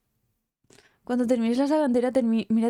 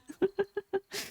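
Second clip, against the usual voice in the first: short, much higher giggle, softer; high burst of laughter; 11 semitones higher, 6 dB quieter than usual. Real, not acted. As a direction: laugh at her own outburst. Risa tras estallar. (risita aguda)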